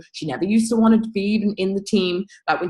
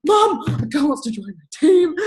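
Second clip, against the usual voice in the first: put-on childish call; 7 semitones higher, 4 dB louder than usual. Child calling out to mum.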